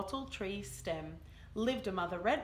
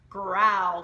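loud growl word; 10 dB louder than usual. Acted. Mother Tassie devil growling loudly at her young.

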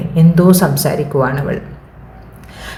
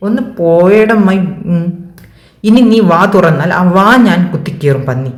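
mild teeth-gritted threat; 2 semitones higher than usual. Acted. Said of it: "പല്ല് ഞെരിച്ചുകൊണ്ട് പറഞ്ഞു".

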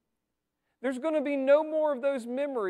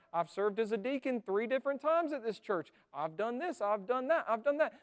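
lightly voiced self-satisfied church member; smug churchgoer. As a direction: list your credentials complacently. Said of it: "who are going".

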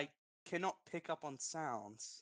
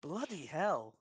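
mock British accent demonstration; lightly put-on British accent; slower than usual. Shown as a demonstration. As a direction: show how a Brit would say it. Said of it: "say that with a British accent".

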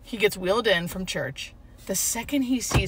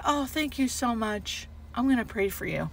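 sweet; 6 dB quieter than usual. Retold or imitated. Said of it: "he was so sweet".

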